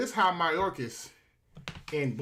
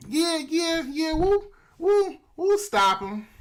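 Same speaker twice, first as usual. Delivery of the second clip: eager promise; 11 semitones higher, 6 dB louder, slower than usual. Acted. Voices officials promising eagerly.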